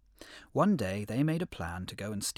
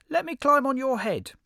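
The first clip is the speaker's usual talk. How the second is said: very high, loud little critter voice; high squeaky hedgehog; 9 dB louder than usual. Acted. Hedgehog in pit.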